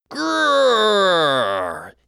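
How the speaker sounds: high, loud growl; loudest growl. Acted. Lost boy growling, loudest growl. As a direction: give it full bear growl. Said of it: "Even louder still".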